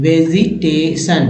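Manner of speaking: "vegetation" बहुत धीमे खींचकर; slow demo word. Shown as a demonstration. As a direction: draw out "vegetation" syllable by syllable. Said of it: "reading word by word demo". (धीमे उच्चारण में "vegetation")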